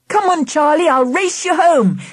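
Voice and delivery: a touch of playful urging; eager challenge. A narrator's reading. Dad challenging Charlie to a race, lightly eager.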